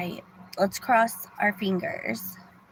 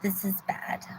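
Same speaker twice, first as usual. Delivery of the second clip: whisper; 9 dB quieter than usual. Real, not acted. Worried aside about her situation.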